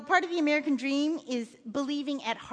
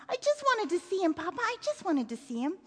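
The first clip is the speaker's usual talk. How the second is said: put-on high-pitched child's plea; a tearful boy begging to be understood; pleading boy; 7 semitones higher than usual. A narrator's reading. Crying child pleads with father.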